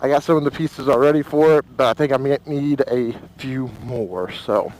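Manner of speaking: talking inside a helmet in the wind. Real, not acted. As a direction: voice through helmet mic on a ride. Riding with helmet-mounted camera.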